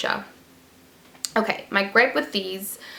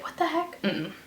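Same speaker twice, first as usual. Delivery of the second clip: retold disgust; 7 semitones higher, 4 dB quieter than usual. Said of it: "I was like".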